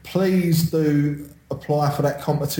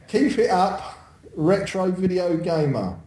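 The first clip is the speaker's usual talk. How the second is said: Cockney review read-out; Cockney, starting on a higher pitch; Cockney accent; 4 semitones higher than usual. Shown as a demonstration. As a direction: sign off in Cockney. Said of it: "I'll read this in my normal Cockney accent".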